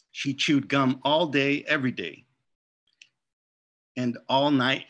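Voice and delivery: lively read-aloud to children, voicing each character; story narration. A narrator's reading. Author reads picture book aloud.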